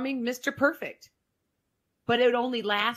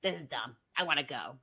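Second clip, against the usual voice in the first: whiny complaining; 6 semitones lower, faster than usual. Retold or imitated. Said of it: "all he's doing is like".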